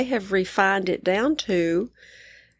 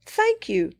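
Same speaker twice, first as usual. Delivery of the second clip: excited celebration; 13 semitones higher than usual. Pretend. Voicing her own celebration.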